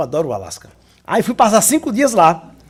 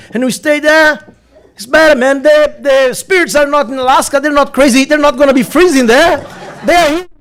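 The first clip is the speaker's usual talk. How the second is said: oficial da imigração; 4 semitones higher than usual. Retold or imitated. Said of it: "Aí ele olhou pra mim e disse".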